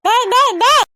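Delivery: insistent repeated call; hey-you call from a cross grandmother; calling out sharply. Acted. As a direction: summon the grandson crossly, each call separate.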